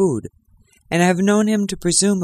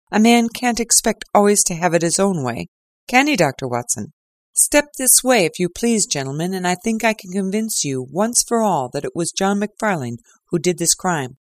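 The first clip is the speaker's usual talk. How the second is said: triumphant Lestrade; 3 semitones higher than usual. Acted. Lestrade showing off to Holmes and Watson, lightly voiced triumph. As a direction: lead them in like a winner. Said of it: "grossly triumphant".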